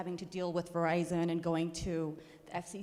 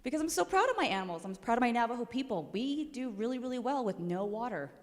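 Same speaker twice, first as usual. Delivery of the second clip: emotional; 5 semitones higher than usual. Real, not acted. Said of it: "I'm gonna get emotional".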